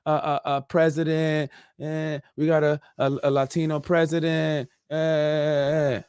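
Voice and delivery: mildly hammed-up cheer over a new president; mock cheering. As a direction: play the naive happy voter lightly. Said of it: "Just because I say".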